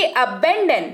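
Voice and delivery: अबैंडन as "uh-BAN-dun"; pronunciation demo. Shown as a demonstration. Teacher telling learners how to read it, pronunciation demo of अबैंडन. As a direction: model अबैंडन with a short opening "uh". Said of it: "इसको पढ़ेंगे".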